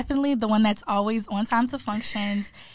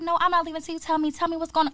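imitated playful pestering, a bit higher; joking insistence; 5 semitones higher, faster than usual. Imitating friend refusing to leave till told, playfully insistent. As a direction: press for an answer, half-joking. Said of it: "She was, like, joking".

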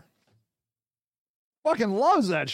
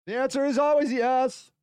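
booming declaration; shouted. Acted. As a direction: shout it like a final verdict.

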